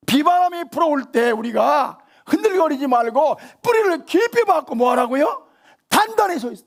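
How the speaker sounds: high, loud preaching push; fervent sermon delivery. Acted. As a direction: drive the command home from the pulpit. Preaching at full force.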